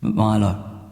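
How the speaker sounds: a loving dad talking while he builds; dad's voice. Acted. Dad's voice continues.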